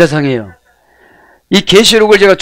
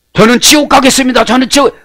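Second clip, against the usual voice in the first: mock prayer; 8 semitones higher than usual.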